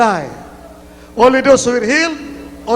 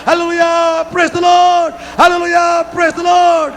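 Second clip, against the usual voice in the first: high, sustained revival chant; insistent preacher's shout of praise; rallying praise; 6 semitones higher than usual. Real, not acted. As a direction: lead the congregation call by call. Leads congregation in praise chant.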